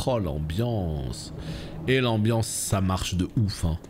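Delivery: awed. Real, not acted. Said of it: "Ça commence à me plaire".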